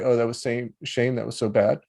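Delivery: victim story. Shown as a demonstration. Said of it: "From the victim story".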